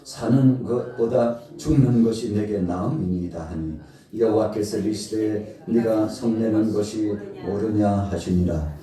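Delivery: loud, solemn Bible reading; scripture reading. Acted. Preacher reading Jonah chapter four aloud, solemn and loud. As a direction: proclaim the text to the congregation.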